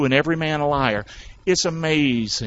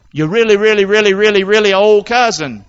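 louder, stretching each really; emphatic exaggeration; 3 semitones higher, 9 dB louder than usual. Angel tells Mary of her cousin, loud playful exaggeration. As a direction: pile on the reallys for laughs.

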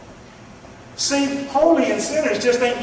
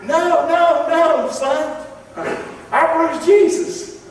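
God answering; 8 semitones higher, slower than usual. Acted.

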